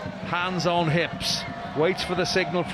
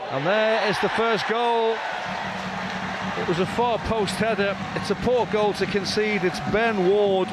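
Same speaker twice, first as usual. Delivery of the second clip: higher, lifted commentary voice; goal announcement; 4 semitones higher than usual. Real, not acted. Commentator calls the first goal, pitch raised and emphatic.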